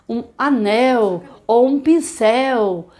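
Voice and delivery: slow, careful naming; slow demo. Shown as a demonstration. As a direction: show the objects slowly. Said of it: "Vamos fazer quantas vezes". (devagar, mostrando)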